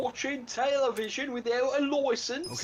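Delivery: put-on pompous London policeman accent; British copper. Friends watching a game, doing a British bobby accent. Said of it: "I don't know why I did the British thing".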